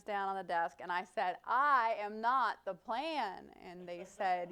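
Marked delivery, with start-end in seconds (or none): 1.5-3.5 firm slow protest. Retold or imitated. Slammed hands on desk.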